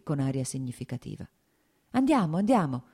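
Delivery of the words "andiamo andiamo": higher, louder, buoyant agreement; a cheerful, lifted "let's go"; happy eager reply. Acted. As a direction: jump at the chance, glad and quick. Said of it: "rispose felice Lievin".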